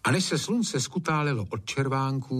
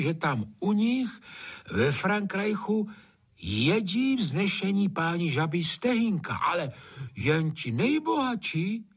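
high, long-winded storytelling voice; spinning a yarn; 8 semitones higher than usual. A narrator's reading. Gamekeeper telling tall tale, long-winded. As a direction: tell it grandly and at length. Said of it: "vykládal a pěkně ze široka".

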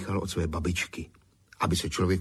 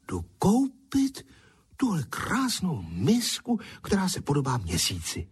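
breathed out; 8 semitones higher than usual. Acted. Girl gasps at the moon bowl, breathless and high. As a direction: breathe it out in awe. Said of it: "a vydechla".

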